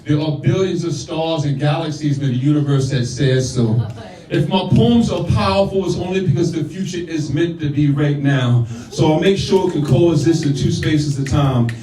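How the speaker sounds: rhythmic, declaiming poetry delivery; spoken word poem. Acted. Poet performing his verses for the crowd, declaiming. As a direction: perform it like a slam poet on stage.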